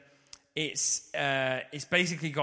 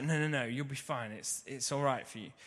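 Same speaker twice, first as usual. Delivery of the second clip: calm reassurance; 5 dB quieter than usual. Retold or imitated. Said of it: "really, really calm, collected".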